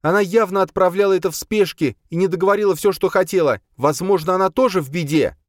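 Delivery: put-on high, impatient young woman's voice; an exasperated girl pushing to leave; Boya, impatient. Boya impatient with the others, high and pushy.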